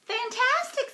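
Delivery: high, gushing praise; flattering. Acted. Elizabeth flattering the dragon, gushing. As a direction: lay the praise on thick.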